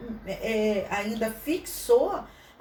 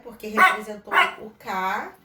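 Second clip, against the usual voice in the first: ordinary delivery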